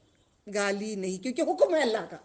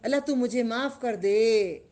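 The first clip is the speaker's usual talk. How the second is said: prayer; 3 semitones lower, slower than usual. Shown as a demonstration. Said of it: "تو کہنا".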